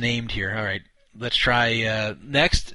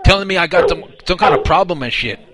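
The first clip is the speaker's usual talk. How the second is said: higher, louder put-on dim caller; clueless caller voice; 5 semitones higher, 6 dB louder than usual. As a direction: play a confused, flustered customer. Caller plays clueless victim to scammer.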